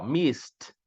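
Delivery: "missed" with hissed s and final t; T ending. Shown as a demonstration. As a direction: demonstrate "missed" as "mist". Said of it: "som de T, ó".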